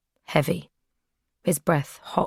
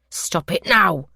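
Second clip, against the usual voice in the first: firmer, louder stop it now; stern captor's raised command; 2 semitones higher, 4 dB louder, slower than usual. Acted. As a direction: bark the order.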